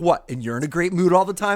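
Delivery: loud high sarcastic comeback; hammed-up huffy retort; mock indignant retort. Imagining snapping back at her husband, mock indignant retort. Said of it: "I'd be like".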